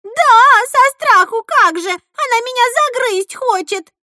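very high, loud indignant voice; shrill angry protest. A narrator's reading. Frightened girl arguing with cousin, shrill protest. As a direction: fight back, outraged. Sisters quarrel.

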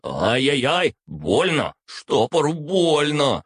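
burned familiar whimpering in pain; whiny crying voice. Acted. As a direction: whine like a hurt child. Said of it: "плаксивым голосом заявил мой друг".

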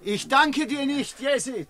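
high, slow, stretched-out reproach; anguished parting cry. Acted. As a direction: cry it after him as he is led off.

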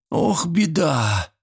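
put-on an old man suddenly dismayed; frightened old man. Old grandfather fearing his grandson will leave, slow and alarmed. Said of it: "испугался Митрич".

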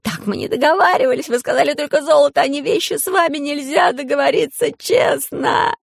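high, loud outraged yell; pygmy screaming from his cage. A narrator's reading. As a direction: bellow it at the cheats behind the bars. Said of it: "заорал".

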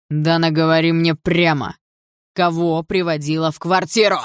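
jealous stepfather shouting at his wife. A narrator's reading. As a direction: yell the demand at her. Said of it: "кричал Андрей".

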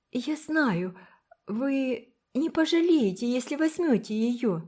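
put-on a shy child pouring out her plea; pleading little girl. A narrator's reading. Una's long plea. (высокий детский голос, горячая мольба)

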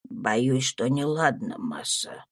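low, soft, grave servant's reply; serious Tom. A narrator's reading. Servant gravely answering his master, low and soft. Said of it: "отвечал Том серьёзно".

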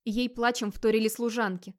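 ordinary delivery, nothing marked

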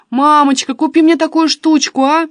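high, loud coaxing plea; wheedling. A narrator's reading. Daughter wheedling for a gift.

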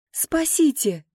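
crying for help. A narrator's reading. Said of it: "закричала я".

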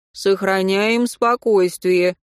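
slow, calming tone; peaceable. Acted. Anton soothes the distraught Katya, slow and calming. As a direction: talk her down gently. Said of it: "миролюбиво произнёс".

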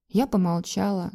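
plain reading voice

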